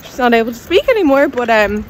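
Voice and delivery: talking with teeth strips in; words slightly blocked by strips; with whitening tray. Real, not acted. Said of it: "I've got my teeth whitening strips in".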